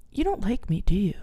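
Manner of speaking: softly retold timid question; half-whispered, tentative ask; hesitant question. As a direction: imitate a quiet, careful confrontation. Retelling tentative question at breakup.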